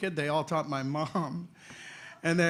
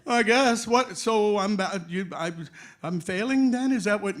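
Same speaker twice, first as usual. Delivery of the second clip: put-on confused kid; 5 semitones higher, 7 dB louder than usual. Child answering the nun.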